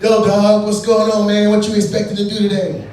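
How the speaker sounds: hammed-up neighborhood kid hailing him; street slang greeting. Neighborhood kids greeting him, hammed-up street slang. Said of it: "I got my ass kicked a lot".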